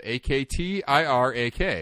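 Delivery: letters spelled out one by one; spelling it out. Shown as a demonstration. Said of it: "which is spelled".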